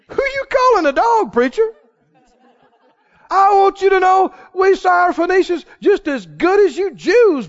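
offended, rising outrage, half laughing; indignant woman. Pretend. Woman snapping back at the preacher, indignant. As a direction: bristle at being called a dog. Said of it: "A lot of folk would have jumped up and said".

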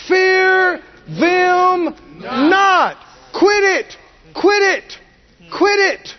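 high, slow, ringing command; preaching command. Real, not acted. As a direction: hammer it home each time. Preacher's climactic repeated command.

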